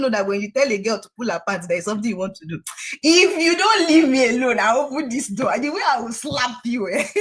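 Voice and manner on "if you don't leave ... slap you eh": sharp, raised warning to a man; retold furious threat; angry threat. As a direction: threaten him, voice rising. Confronting the pastor in the car.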